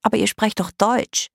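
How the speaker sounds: put-on surprised girlish remark; puzzled. A narrator's reading. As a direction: object in bewilderment. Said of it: "wunderte sich Greta".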